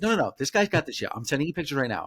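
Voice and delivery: a hint of effeminate fussiness, hurried; effeminate man. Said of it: "very feminine gay".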